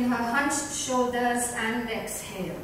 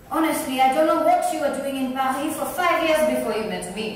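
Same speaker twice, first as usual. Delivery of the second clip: teasing; 2 semitones higher, 5 dB louder, faster than usual. Acted. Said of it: "teased Violet".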